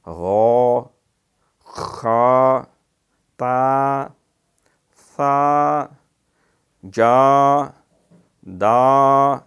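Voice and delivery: each syllable called out loud and long; letter drill. Shown as a demonstration. Teacher drills letter sounds loudly for students. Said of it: "پھر آگے ہا حلوے والا".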